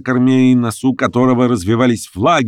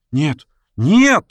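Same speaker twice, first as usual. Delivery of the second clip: Daisy's cry; 7 semitones higher than usual. A narrator's reading. Daisy refuses the revellers, crying out. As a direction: cry out no in alarm. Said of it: "закричала Дейзи".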